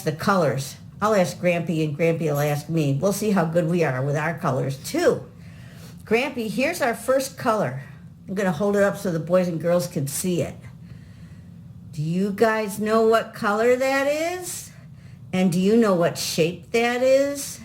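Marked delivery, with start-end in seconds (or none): 6.0-17.6 put-on kids show host. Asking kids at home.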